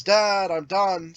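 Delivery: mild retold yell, drawn out; imitated child calling from the bathroom; kid's yell. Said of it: "But he yells".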